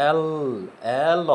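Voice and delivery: এল said a bit harder, opening on an e sound; firm L. Shown as a demonstration. Teacher shows students এল said with force. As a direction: voice এল firmly so the e comes through. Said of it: "একটু জোরে উচ্চারণ করি".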